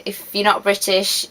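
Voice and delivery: "not" leaned on against "If you're British"; stress on not. Shown as a demonstration. Vlogger sets non-Brits against Brits, stressing "not". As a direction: tip the weight onto "not". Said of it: "If you're British".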